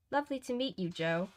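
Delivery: Fiona. Acted. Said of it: "Fiona replied".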